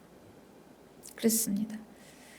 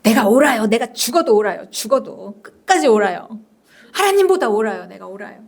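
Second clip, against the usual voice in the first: stubbornly insistent, trailing off at the end; strong rebuttal. Acted. Jonah contradicting God, stubborn rebuttal. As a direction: refuse to give an inch. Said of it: "강하게 반박하면서".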